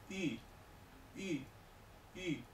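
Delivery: I said as a rounded ü, lips of u, tongue of i; French u sound. Shown as a demonstration. Teacher models the ü vowel for the class. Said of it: "Esta se pronuncia".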